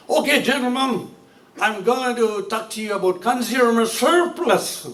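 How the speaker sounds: slow, drawn-out mock American lecture; hammed-up American accent, stretching the key term; put-on American accent. English lecturer addressing his class, in a put-on American accent. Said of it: "put on accent".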